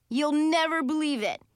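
excited news. A narrator's reading. Boy tells Allie about her cat, excited. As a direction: burst out with the news.

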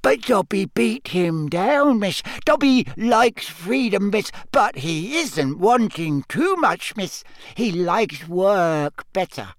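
small eager house elf. Acted.

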